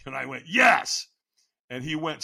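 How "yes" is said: higher, fairly forceful yes; obey with a short, firm cry; first, weaker yes. Retold or imitated.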